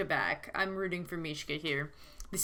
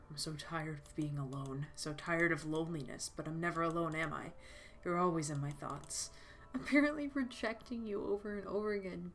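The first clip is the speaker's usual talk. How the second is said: soft sad reading; 6 dB quieter than usual. Acted. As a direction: read it like a private ache. Reading Mishka's lonely thoughts.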